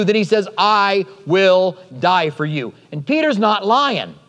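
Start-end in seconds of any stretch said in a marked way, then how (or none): 0.6-2.7 slow, spaced-out "I will die for you"; emphatic vow. Acted. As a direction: give "I", "will" and "die" each its own beat. Peter's acted vow.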